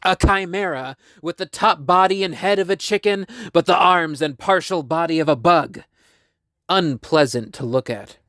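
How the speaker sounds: measured storyteller reading stage directions; script narration. A narrator's reading. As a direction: read the scene out clearly. Reads script scene description.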